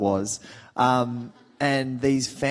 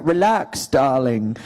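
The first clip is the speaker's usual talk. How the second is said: put-on louder English-accented darling; Tom Hardy; 4 dB louder, much slower than usual. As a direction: channel an English film star. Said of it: "practicing Tom Hardy so much".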